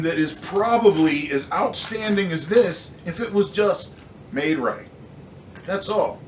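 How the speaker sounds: real exasperation at a defective product; emotional rant. Real, not acted. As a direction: let the frustration lift the voice. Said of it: "I'm a little emotional about this".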